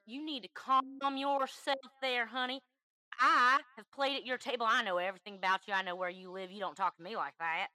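put-on Southern twang, mildly scolding; fake Southern accent. Caller telling her to calm herself, fake Southern accent. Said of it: "Southern accent coming at her on the phone".

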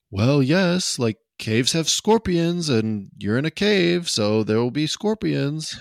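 put-on a light C-3PO-style British accent. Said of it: "kind of got, like, a British accent, like C three P O".

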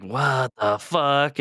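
slow, drawn-out disbelief; stunned girl. Retold or imitated. Girl finding grandma eating the neighbor, slow shock. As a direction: let it hang in shock.

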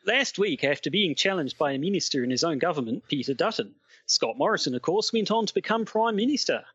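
attempted Aussie correspondent accent; put-on Aussie newsman; Australian accent. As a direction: report in a shaky attempt at Australian. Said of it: "I find Australian accents really hard".

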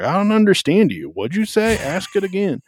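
high-pitched, pompous British assistant voice; Siri. Retold or imitated. Host mimicking a voice assistant that butts in, high pompous British. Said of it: "she's in a British accent".

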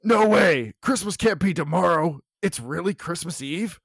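Catwoman voice. Acted. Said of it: "That was a Catwoman response".

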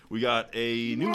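gargled words; while gargling. Pretend. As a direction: talk through a mouthful of water. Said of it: "you just sound like you're gargling".

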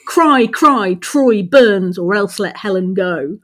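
both words of "Cry, cry" and "Troy burns" stressed; spondee verse demo. Shown as a demonstration. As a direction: give "Cry, cry, Troy burns" equal heavy beats. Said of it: "used to use spondee meter".

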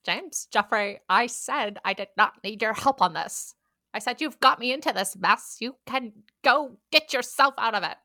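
firm Scottish scolding; lightly hammed Scottish rebuke; mock Scottish accent. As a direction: refuse help in put-on Scots. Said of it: "Jeffrey in Scottish".

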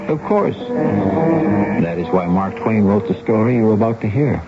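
ordinary talk

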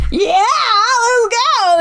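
laughing. Retold or imitated. Drunk man eagerly agreeing.

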